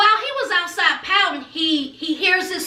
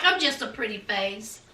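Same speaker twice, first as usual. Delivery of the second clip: mildly dejected, low-pitched quote; feeling down; 8 semitones lower, 8 dB quieter than usual. Retold or imitated. Mississippi doubting herself after feeling down, mildly dejected. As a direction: act out a touch of self-doubt. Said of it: "Mississippi was just feeling down".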